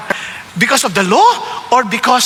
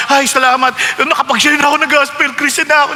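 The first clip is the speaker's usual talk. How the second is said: self-satisfied relief. Retold or imitated. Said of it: "Nagche-checklist tayo".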